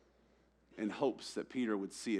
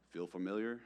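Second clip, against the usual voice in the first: snarky; 2 semitones lower, 7 dB quieter than usual. Retold or imitated. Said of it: "my snarkiness would be like".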